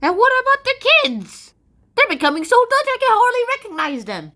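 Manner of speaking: high, loud dramatic complaint; mock distress. Pilgrim parent fretting over Dutch kids, mock distress. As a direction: wail about it in exaggerated alarm.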